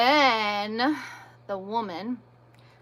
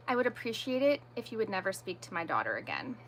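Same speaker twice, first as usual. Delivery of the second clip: softer, quick, controlled and polite; retold calm request; 2 semitones lower, 8 dB quieter, faster than usual. Mother confronting the woman in the store, very calmly. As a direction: keep it calm and measured, a firm polite request. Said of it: "walked over very calmly".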